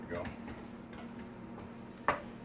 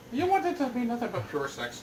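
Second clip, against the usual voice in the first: lightly put-on Australian accent, higher; a hint of Australian, tossed off; mock Australian accent; 11 semitones higher than usual. Correcting the accent for the crew, a mild mock Australian accent. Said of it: "That's my Australian".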